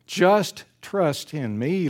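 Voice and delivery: slow, coaxing reassurance; lightly voiced gentle God, urging trust; God's gentle voice. God speaking to his children, slowly and reassuringly. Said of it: "what God says to us".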